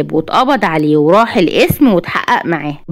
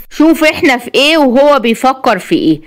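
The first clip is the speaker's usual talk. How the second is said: higher, a touch of irritated scolding; mild exasperation; 5 semitones higher than usual. Acted. Wafaa complains to Sabri on the phone, a touch exasperated. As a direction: vent irritation over his carelessness. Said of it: "وفاء بغيظ".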